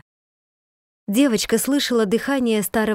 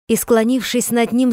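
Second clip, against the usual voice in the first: ordinary delivery, nothing marked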